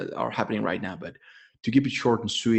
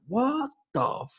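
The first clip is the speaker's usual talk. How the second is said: much higher mock outrage; reacting to fact checkers in mock disbelief; 9 semitones higher, much slower than usual. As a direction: squeak out the disbelief. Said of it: "And I'm like".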